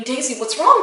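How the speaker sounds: rising, anxious call to the dog; retold panicky plea, question going up; worried repeating. Owner to her sick dog, worried rising plea. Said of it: "but I kept repeating".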